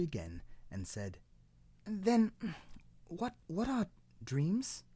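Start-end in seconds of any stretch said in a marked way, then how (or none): 1.8-4.8 high, eager little cloud question; little cloud asking. Acted. Cloud asks old tree about dreams, high and eager. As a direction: ask in a high curious voice.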